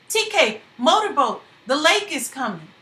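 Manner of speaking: high, urgent wake-up warning; urgent alarm. Acted. Janey waking sleeping men as flood returns, urgent alarm. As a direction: shake them awake with fear.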